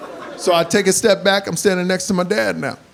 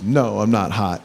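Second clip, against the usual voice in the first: wife's reply; 11 semitones lower, 3 dB quieter than usual. Retold or imitated. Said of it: "My wife goes".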